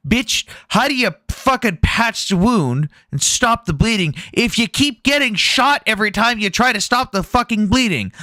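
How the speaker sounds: hammed-up disbelief at the general; incredulous retort. Speaker retelling his reaction to the general, high incredulous. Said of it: "My first thought was".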